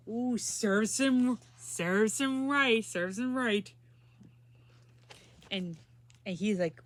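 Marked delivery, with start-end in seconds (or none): 0.1-3.7 smug turtles. Acted. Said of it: "the turtles were like".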